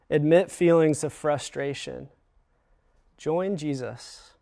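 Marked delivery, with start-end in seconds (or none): 3.2-4.3 slow emphatic appeal. Shown as a demonstration. Slow call to action.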